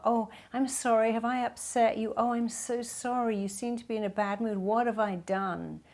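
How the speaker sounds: flustered over-apologetic pleading; anxious people pleaser. Retold or imitated. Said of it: "people pleasers say sorry a lot".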